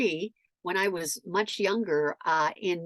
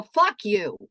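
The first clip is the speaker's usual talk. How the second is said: louder, pointed comeback; mock-angry retort; retold angry retort; 5 dB louder than usual. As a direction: throw it back at him. Re-enacted shouting match.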